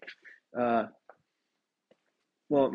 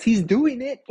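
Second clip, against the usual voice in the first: louder, higher, breaking into real laughter; laughing; 6 semitones higher, 7 dB louder than usual. Real, not acted. Podcaster amused at himself, laughing. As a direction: say it while cracking up.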